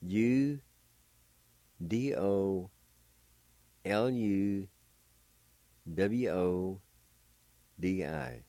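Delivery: letters named one at a time; spelled out letter by letter. Shown as a demonstration. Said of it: "And it's spelled like this".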